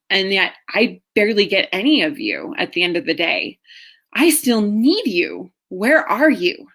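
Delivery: rising, aching plea, slowing on I still need you; pleading inner voice. Retold or imitated. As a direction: ask him where he is, hurt and pleading. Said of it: "All I know was that I felt like".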